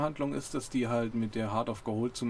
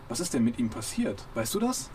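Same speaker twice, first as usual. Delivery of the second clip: excited. Acted. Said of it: "ganz aufgeregt".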